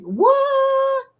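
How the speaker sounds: high, drawn-out surprised what. Real, not acted. Learning about a favourite sandwich, surprised. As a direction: sound genuinely caught off guard.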